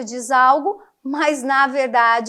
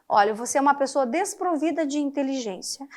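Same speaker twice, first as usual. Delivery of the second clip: soft, quicker, gently polite "desprovida de inteligência"; mock-polite, softer phrasing; polite euphemism; 5 dB quieter, faster than usual. Shown as a demonstration. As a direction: soften the insult into something nice. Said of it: "você foi eufêmico".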